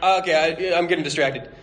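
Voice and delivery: ordinary delivery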